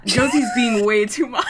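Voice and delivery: loud laughing outburst; cracking up while shouting. Real, not acted. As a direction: burst out laughing mid-line.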